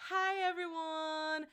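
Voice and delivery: slow, whimpering hi with a fake sob; mock crying greeting. Streamer greets chat in a mock tearful whimper. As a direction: whine the hello like you're about to cry.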